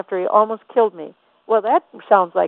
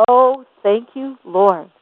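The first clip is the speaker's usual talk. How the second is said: grateful prayer; 4 semitones higher, much slower than usual. Pretend. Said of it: "the first thing that should come".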